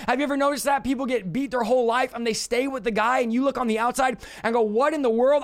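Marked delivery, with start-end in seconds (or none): 4.8-5.4 baffled outsider. Retold or imitated. Onlooker baffled that a beaten person stays, bewildered. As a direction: throw up your hands in disbelief.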